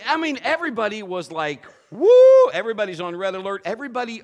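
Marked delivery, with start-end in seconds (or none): 1.9-2.5 very loud, high whoop of alarm; mock-alarmed high yell; startled whoop. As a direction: whoop like a whole startled crowd. Everybody's startled reaction, acted out.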